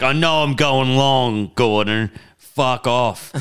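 half-yell it slowly, imitating a drunk comic; mock yell. Comic yelling at the MC, mock yell. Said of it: "you yelled at Gordon Southern".

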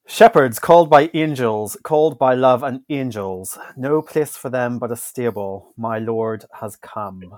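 a light Northern Irish read of the lyrics; Irish accent. Acted. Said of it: "I'll do it in my Irish accent".

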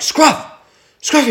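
high mock dog call; retold yell. Owner yelling at his deaf dog, high mock call. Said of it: "I'm yelling at him".

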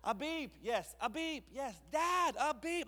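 put-on be a thrilled two-year-old spotting trucks; excited toddler. Father imitating his son shouting about trucks, high and excited.

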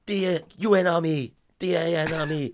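put-on Guile in a Dutch accent. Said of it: "It's a good little Dutch accent".

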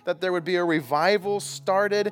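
earnest, measured prayer voice. Acted. Pastor praying over the room, earnest. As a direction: pray it out over the congregation. Leads a prayer before the sermon.

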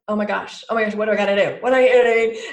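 rising into a loud frantic question; frantic panic. Retold or imitated. Listeners hearing their fearful inner voices, growing loud and frantic. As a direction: scramble in a panic. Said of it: "we hear those voices and we're like".

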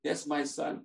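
soft, patient rabbi; reply quietly and evenly to a pest; calm answer. Acted. Rabbi in his bathrobe to the returning man, calm and soft. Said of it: "gives a very calm answer".

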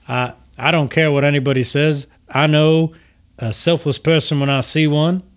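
genteel host gushing with gratitude; gracious Lucian Flametongue. Acted. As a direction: greet them with courtly, lilting flattery. Lucian praises the air genasi.

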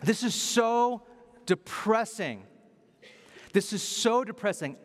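high, exasperated cry of dismay; mildly yelled, drawing out the dismay; retold yelling. Yelling at the universe in the car, retold exasperation. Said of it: "I'm yelling at".

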